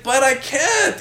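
high-pitched mock protest; mimicked girl's protest. Mimicking a girl refusing his friend, high mock protest. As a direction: squeak out her refusal in imitation.

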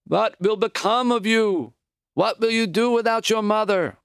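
high, slow, keening wail of grief; wailing aunt. A narrator's reading. Aunt wailing over motherless Maury, high and slow. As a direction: wail it over the grieving boy. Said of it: "began to wail".

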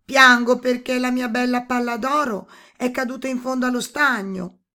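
high, loud, plaintive princess; upset princess. A narrator's reading. Princess explaining her tears to the toad, upset princess voice. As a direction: voice a princess lamenting her loss.

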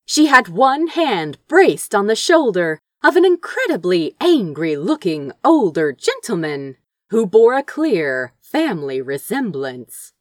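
usual speaking voice

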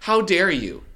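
mock outraged mother; outraged mom. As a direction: scold your daughter like a shocked mother. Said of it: "And she's like".

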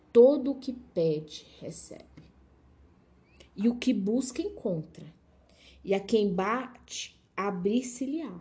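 slow, measured Bible reading; scripture reading. Acted. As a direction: read the verse out deliberately, with spaces between phrases. Reads scripture aloud.

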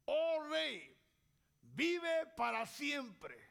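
slow, reverent address to a king; honouring. Shown as a demonstration. Daniel honours the king from the pit, slow and reverent. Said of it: "Lo honra".

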